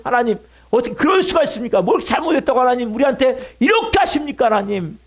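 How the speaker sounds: mock plea to God, pressing on without pause; acted protest. Preacher voices a bereaved father protesting to God, acted protest. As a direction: protest to God as a wronged parent might. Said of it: "하나님께 항변하고 울부짖지 않겠어요".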